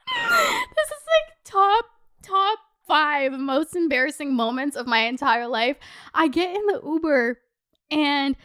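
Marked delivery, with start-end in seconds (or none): 0.1-2.6 laughing. Real, not acted. Laughing-crying at the embarrassing memory.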